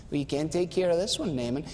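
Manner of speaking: a hint of a curt prophet; dry retort. Prophet's side answers Naaman.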